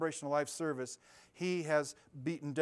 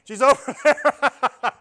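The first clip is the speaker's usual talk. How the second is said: normal voice, loud; 8 semitones higher, 16 dB louder, much slower than usual. Shown as a demonstration. Showing the congregation the loud shout in his normal voice. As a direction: bellow it in your own voice, drawn out. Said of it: "Speaking in my normal voice really loudly".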